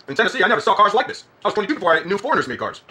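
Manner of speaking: exaggerated Southern American twang; put-on Southern accent. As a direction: tease in a hammy Southern accent. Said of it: "putting on a Southern accent".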